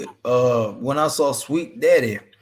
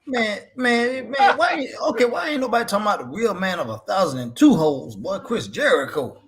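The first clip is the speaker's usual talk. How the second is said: higher, laughing protest; excited joking outburst; 6 semitones higher than usual. Real, not acted. Host jokes to his co-host about Jericho, excited and laughing. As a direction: cut in with a mock-indignant joke.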